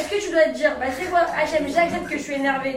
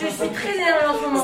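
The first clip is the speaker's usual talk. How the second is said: laughing. Real, not acted. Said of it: "Bon, alors".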